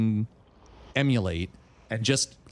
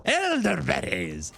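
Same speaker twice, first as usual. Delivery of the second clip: frustrated mock exclamation; 4 semitones higher, slower than usual. Real, not acted. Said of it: "Let me try that one more time".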